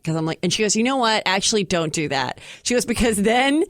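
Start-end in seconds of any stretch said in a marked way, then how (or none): 0.7-2.4 Chelsea Handler impression. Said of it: "can literally hear Chelsea in your voice". 2.8-3.6 Chelsea Handler impression. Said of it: "can literally hear Chelsea in your voice".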